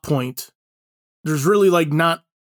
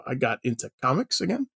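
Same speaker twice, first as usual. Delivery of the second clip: drily sarcastic, rising at the end; 7 dB quieter than usual. Real, not acted. Podcast host tells co-hosts about a break-time hobby, sarcastic. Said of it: "which I say sarcastically".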